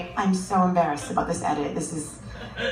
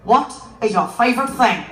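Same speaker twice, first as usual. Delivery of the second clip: game show host; 4 dB louder than usual. Retold or imitated. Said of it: "I pretend to be a game show host".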